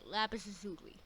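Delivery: "lazuli" run together as luh-ZOO-lee; habitual pronunciation. Shown as a demonstration. Viewer showing how they always say it, "lazuli" as luh-ZOO-lee. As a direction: stress the ZU in "lazuli". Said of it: "I always say".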